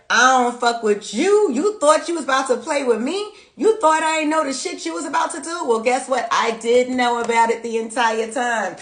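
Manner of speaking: high, loud, sassy comeback; sassy Leo. Acted. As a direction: call them out like you knew all along. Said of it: "Leo said".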